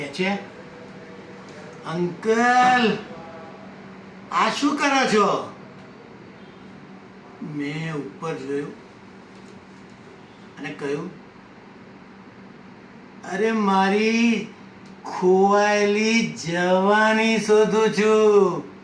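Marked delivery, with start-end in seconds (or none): 1.9-5.5 lightly voiced puzzled question, a bit higher; mildly surprised challenge to an elder. Acted woman questions the old man. 13.3-18.7 slow, drawn-out playful declaration; mock-grand answer, unhurried; theatrical reply. Old man's playful acted reply.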